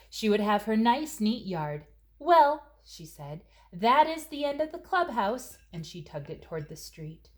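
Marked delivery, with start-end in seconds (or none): 2.2-2.6 a loud, high "Well"; mother's loud well. Acted. Mother declaring the clubhouse over, loud and high. 3.7-5.6 high-pitched motherly pronouncement; mother's verdict. Acted. Mother telling Christina the clubhouse is done, high-pitched.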